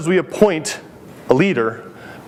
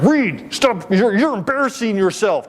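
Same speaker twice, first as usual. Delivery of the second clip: higher-pitched retold parental reprimand; exasperated dad scolding; 5 semitones higher than usual. Father to son mid-tantrum in a candy store, exasperated scolding. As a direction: act out a flustered father's telling-off.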